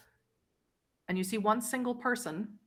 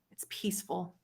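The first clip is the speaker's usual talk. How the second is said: hushed narration; 7 dB quieter than usual. A narrator's reading. GM describes the victim's calm.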